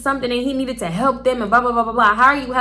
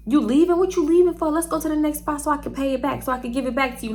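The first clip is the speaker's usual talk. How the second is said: higher-pitched mock pleading man; imitated pleading date; 4 semitones higher than usual. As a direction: imitate him nagging you to stay.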